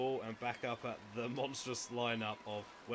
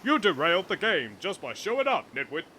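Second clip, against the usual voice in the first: mock scolding; 5 semitones higher, 11 dB louder than usual.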